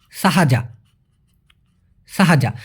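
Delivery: সাহাজা said clearly, syllable by syllable: sa-ha-ja; clear pronunciation demo. Shown as a demonstration. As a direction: pronounce সাহাজা carefully for the learner. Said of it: "উচ্চারণটা কী হবে ভাইয়া?".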